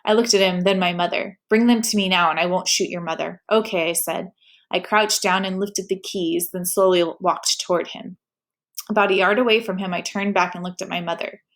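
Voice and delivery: steady read-aloud storytelling voice; story narration. A narrator's reading. Reader narrating a teen novel, steady storytelling. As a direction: tell the story to your viewers.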